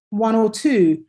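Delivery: ONE and TWO stressed, "or" weak between; unstressed linking OR. Shown as a demonstration. Teacher demonstrating connected words to students, weak "or". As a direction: run "one or two" together with a light "or". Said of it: "say them slightly differently".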